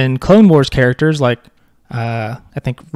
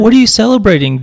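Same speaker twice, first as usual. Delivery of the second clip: mock outrage; 7 semitones higher, 4 dB louder than usual. Mock indignant rant at early fireworks.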